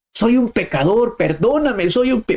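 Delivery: a retold plea for forgiveness, lightly shouted; mock crying out. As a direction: cry out high, begging for mercy. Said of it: "empezó a gritar en medio de la misa".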